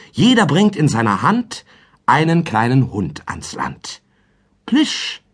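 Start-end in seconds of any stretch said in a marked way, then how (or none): 4.6-5.2 put-on a boy's high call „Plisch“; Paul calling. A narrator's reading. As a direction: sing out „Plisch“ high and bright. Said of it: "rief Paul". (hoch gerufenes „Plisch“)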